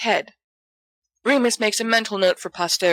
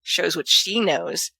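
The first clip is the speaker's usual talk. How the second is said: almost wicked; slower than usual. Acted. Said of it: "almost wickedly".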